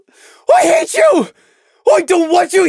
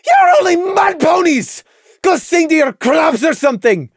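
high, loud, furious ranting; spiteful tirade; 11 semitones higher, 6 dB louder than usual. A narrator's reading. Lily raging over lost magic, spiteful shouting. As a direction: yell scornfully at all of them.

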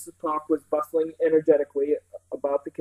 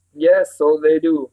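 louder, lively country housekeeper; enthusiastic Mrs Park; 8 dB louder, slower than usual. Acted. Housekeeper tells children about carnival day, eagerly. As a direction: tell it eagerly in a rustic voice.

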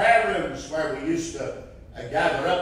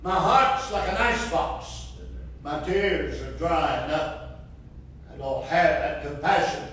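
pleading prayer; 2 semitones higher than usual. Retold or imitated. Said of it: "And I said".

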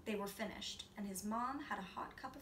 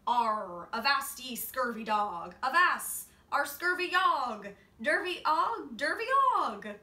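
loud, high broken pirate roar; pirate toy bellowing; 5 semitones higher, 12 dB louder than usual. A narrator's reading. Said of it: "a pirate that bellowed".

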